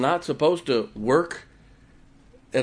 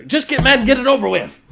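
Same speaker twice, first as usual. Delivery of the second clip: higher, louder pleading wife voice; wife's exasperated plea; 10 semitones higher, 9 dB louder than usual. Retold or imitated. Wife urging her husband to get it over with. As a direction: beg him to just get angry. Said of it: "That's what she said".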